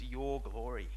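lightly sarcastic, drawing attention to YOUR; a touch of sarcasm on "your glory"; mild sarcasm. Shown as a demonstration. Preacher pointing out God's mockery to the congregation, mildly sarcastic. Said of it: "the sarcasm in those two words".

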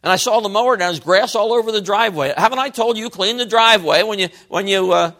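lightly acted nagging father; mock fault-finding, rising in pitch as complaints pile up; critical dad. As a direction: scold like a dissatisfied dad, mildly. Acted dad criticizing son's mowing.

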